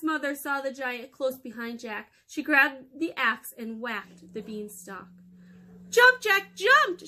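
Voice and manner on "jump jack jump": loud, very high urgent shout; hollered command. Acted. Mother hollering at Jack to jump, loud and high. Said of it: "she hollered".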